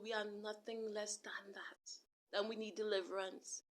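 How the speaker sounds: sudden whispered aside. Real, not acted. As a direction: drop to a hush for emphasis. Preaching, drops to a whisper.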